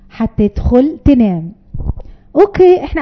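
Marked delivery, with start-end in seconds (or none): 0.1-1.5 slow, steady "هتدخل تنام" with falling end; the right way, unshaken; calm firm order. Shown as a demonstration. Mother shows parents the calm, steady bedtime order. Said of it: "شايفين حضرتك لما أقول".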